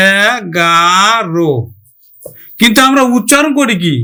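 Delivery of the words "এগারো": "এগারো" drawn out slowly as e, ga, ro; very slow, separated syllables in "এগারো". Shown as a demonstration. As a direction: spell out "এগারো" slowly in three parts. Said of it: "লিখি কেমন করে".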